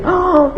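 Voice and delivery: mock shriek. Shown as a demonstration. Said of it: "no tenés que hacerle".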